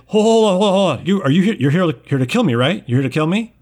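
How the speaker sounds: high, loud, frantic pleading; cornered nerd in a panic; panicked scientist. Acted. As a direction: beg for your life in a rush. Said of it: "He's like".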